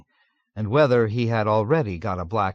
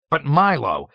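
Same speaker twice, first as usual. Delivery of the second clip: higher, louder hearty protest; jovial exclamation; 5 semitones higher, 6 dB louder than usual. A narrator's reading. Colonel jovially reassuring Milo, hearty loud exclamation. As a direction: boom it out like a jolly colonel. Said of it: "exclaimed with a laugh that thundered jovially".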